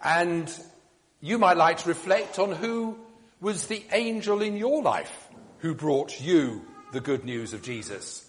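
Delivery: ordinary delivery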